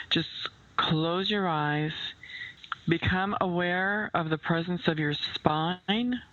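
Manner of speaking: unhurried meditation voice with long pauses; guided visualization. Acted. Host guiding listeners to picture a calm lake, unhurried meditation voice. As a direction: lead the listener gently, phrase by phrase.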